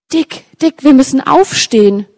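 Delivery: lightly acted urgent call; urgent wake-up call. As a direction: call out to rouse a sleeping friend. Urgent voice calling a sleeper awake.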